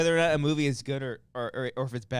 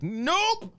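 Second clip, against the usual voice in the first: exclaiming. Retold or imitated. Reacting to trailer, retold.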